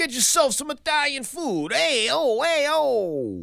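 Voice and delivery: very high, drawn-out, stereotypical fake Italian accent. Promoting an italian dinner and comedy show: put-on stereotypical italian accent. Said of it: "I like talking like that".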